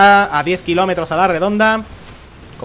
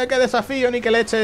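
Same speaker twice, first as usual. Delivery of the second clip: mocking quoted challenger; 7 semitones higher than usual.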